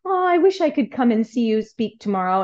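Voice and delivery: gently wistful, imitating a daughter's wish; a touch of childlike sweetness; sweet child. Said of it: "very sweetly said".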